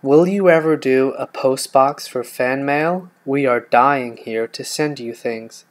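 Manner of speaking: slow, loud put-on American accent; a deliberately bad American accent, drawn out. Answering a fan question on request in a put-on American accent. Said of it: "this is gonna be an American accent then".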